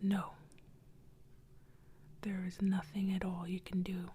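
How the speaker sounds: lightly voiced ghost delivering a curse; cursing ghost. Ghost refuses the boy.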